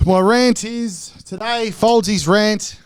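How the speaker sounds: words pushed out on a burp. Real, not acted. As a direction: talk through a burp. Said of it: "Gotta bu-, burp it out".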